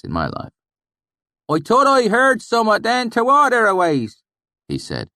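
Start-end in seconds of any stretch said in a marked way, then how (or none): 1.5-4.2 put-on thick valley accent. A narrator's reading. Swineherd speaking to strangers in thick valley accent. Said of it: "his accent so thick and oily".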